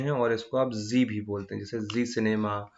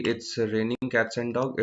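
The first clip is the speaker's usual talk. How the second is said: slow example sentence; much slower than usual. Shown as a demonstration. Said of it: "आप ये बोल रहे हैं कि".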